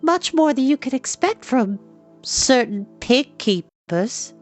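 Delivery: put-on high, slow teasing girl's voice; teasing jab. A narrator's reading. Eilonwy teasing the pig keeper, high teasing voice. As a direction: needle him gently.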